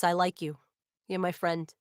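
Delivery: ordinary talk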